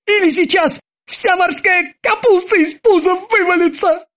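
shrieking back at his captain; thin squeal. A narrator's reading. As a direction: squeak it out in a tiny voice. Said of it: "тоненьким голоском".

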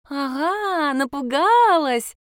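put-on high, slow, gleeful child's taunt; teasing child. A narrator's reading. Girl teasing her startled aunt, high gleeful taunt. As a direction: gloat like a little girl who got you.

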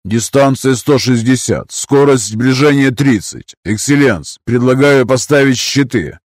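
officer reporting calmly; combat callout. Acted. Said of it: "предложил Карстен".

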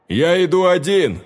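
fierce declaration to the frightened crowd; loud and fierce. A narrator's reading. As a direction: announce it like a challenge to the world. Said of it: "Громко, грозно и яростно".

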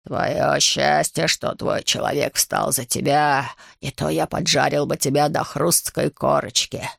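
low, slow dragon threat; snarling dragon. Acted. Dragon Ryuji snarling at the young dragon, low and slow. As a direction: growl the threat out slowly. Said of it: "Второй дракон огрызнулся".

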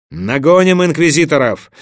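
loud battle cry to pursue; rallying call. A narrator's reading. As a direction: rouse the troops. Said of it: "воззвал Олаф". (призывный клич)

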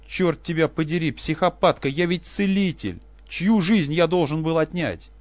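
high, loud, slow anguished shout; desperate yell. Acted. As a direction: roar out his defence. Professor yells in despair.

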